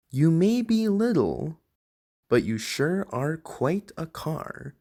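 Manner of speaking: big trucks grudgingly giving praise; admiring trucks. Acted.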